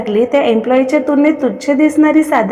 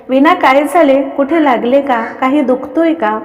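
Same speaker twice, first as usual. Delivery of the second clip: panicked; 2 semitones higher than usual. Acted. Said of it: "Kaveri panic झाली".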